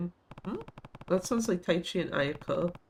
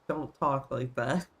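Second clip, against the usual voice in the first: slow, lightly mocking scold; mild mock scolding of a kid; mocking chastise; 3 semitones lower, slower than usual. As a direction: parrot the scolding teacher slowly. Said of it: "it's like".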